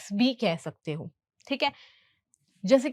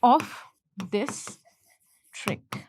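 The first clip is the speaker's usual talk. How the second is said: slow dictation with gaps; word by word; 2 semitones lower, much slower than usual. Shown as a demonstration. Teacher finishing the translated sentence, word by word. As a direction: set each short word apart.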